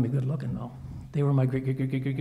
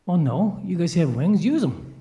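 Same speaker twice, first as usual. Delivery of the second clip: raised voice, hollering an answer down; calling down; 5 dB louder, slower than usual. Acted. Homeowner answering winged friends from upstairs, calling down. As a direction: call it down to friends far below. Acted shouted answer down from window.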